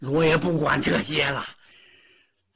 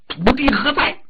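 booming royal call, higher and louder; loud summons; 8 semitones higher, 6 dB louder than usual. Acted. The Dragon King summons the Earth God, thundering. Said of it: "大叫一声".

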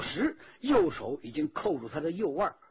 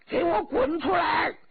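又高又响的怒吼; 扯开嗓子厉声喝令; 10 semitones higher, 5 dB louder than usual. A narrator's reading. 小说中向敌人叫阵. (高声怒喝叫阵)

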